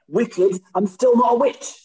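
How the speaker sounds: high, loud laughing quip. Pretend. Jokey slang riff with laughter.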